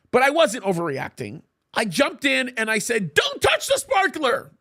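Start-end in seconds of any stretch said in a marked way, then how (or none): 3.1-4.5 put-on high, shouted warning to a child; loud warning shout. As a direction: yell it sharply to stop her. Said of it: "And I did that really loud".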